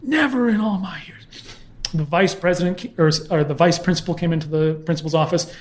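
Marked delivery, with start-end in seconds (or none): 0.0-1.2 higher whispered muttering; mumbled whisper. Retold or imitated. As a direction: mutter it under the breath in despair. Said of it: "mumbling and muttering".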